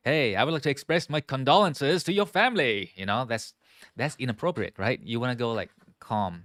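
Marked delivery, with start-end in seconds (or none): 0.1-2.7 chirpy, too cheerful condolence; bright careless greeting tone, the wrong way; inappropriately upbeat. Shown as a demonstration. Teacher shows students the wrong cheerful condolence. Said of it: "You don't wanna go".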